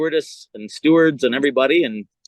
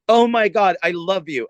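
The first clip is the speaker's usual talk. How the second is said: gushing mock fan, starting high and loud; breathless-fan parody, lightly hammed-up; starstruck fan; 3 semitones higher, 4 dB louder than usual. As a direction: imitate a thrilled fan. Retelling a starstruck fan's greeting.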